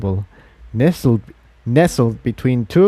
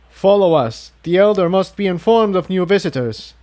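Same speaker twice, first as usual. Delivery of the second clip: firmer; 8 semitones higher than usual. A narrator's reading. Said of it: "his voice sounding marginally more firm".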